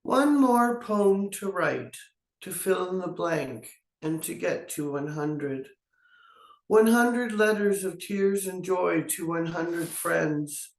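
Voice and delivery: measured reading with falling line ends; poetry reading. Acted. Poet reading their own poem to friends online, measured poetry reading. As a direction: read it line by line, pausing between phrases.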